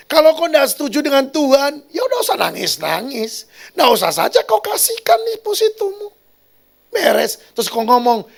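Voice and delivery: very high, loud mock scolding; retold exasperated advice. Pastor tells the woman to keep her deposit, high exasperated scolding. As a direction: push the voice right up in exasperation.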